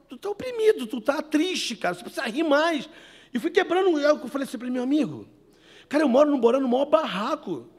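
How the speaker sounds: high, loud joking banter; loud teasing, laughing at the end; playful teasing. Retold or imitated. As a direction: rib him to make him laugh. Teasing the suicidal rich man.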